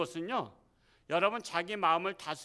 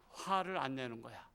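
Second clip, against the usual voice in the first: ordinary delivery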